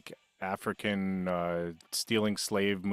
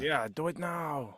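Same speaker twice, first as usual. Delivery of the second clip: a slow, drawn-out "do it now"; slow mock urging; 5 semitones higher, 3 dB quieter, slower than usual. Mocking the victim, slow teasing. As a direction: drag it out, teasing.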